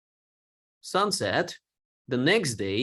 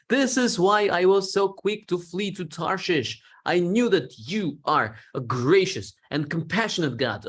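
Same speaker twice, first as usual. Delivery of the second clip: mild frustrated pleading, a bit higher; lightly voiced frustrated prophet; frustrated complaint; 3 semitones higher than usual. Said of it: "he's pouring his frustration to God".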